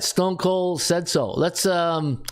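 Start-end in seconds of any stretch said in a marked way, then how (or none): 0.0-1.3 echoing shout. Retold or imitated. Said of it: "as Stone Cold would say".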